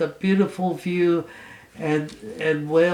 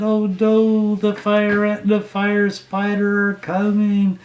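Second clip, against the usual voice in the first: higher and louder, mock panic; alarmed whale; 4 semitones higher, 4 dB louder than usual. Whale looks back at the pursuers, higher, louder mock alarm. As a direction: cry out in playful alarm. Whale sees ants chasing.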